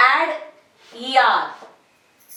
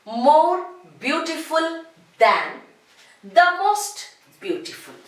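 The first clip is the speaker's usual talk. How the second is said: slow, spaced more and most forms; slow model phrases; 5 semitones higher than usual. Shown as a demonstration. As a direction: present the correct forms clearly. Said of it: "So, we use".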